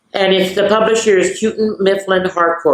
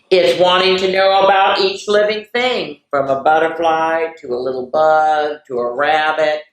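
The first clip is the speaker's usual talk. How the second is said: put-on reading to children. Reading Curious George to the kids, storybook voice. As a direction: read it warmly to little listeners. Reading picture book aloud.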